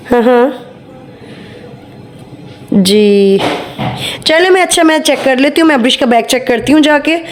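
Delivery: mock-polite call, voice carrying to the next room; fake phone call. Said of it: "झूठी मूठी की call start करती हूँ".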